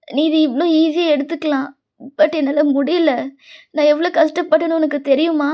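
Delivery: mild tearful wail, no real volume; understated, hurt, weepy reproach; acted wailing. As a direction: plead as if crying over a friend. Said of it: "அப்படின்னு செம்மையா அலறான்".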